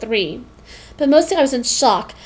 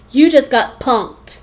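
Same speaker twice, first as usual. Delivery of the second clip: mock yell; 4 dB louder, much slower than usual. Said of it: "jump out of the closet and yell".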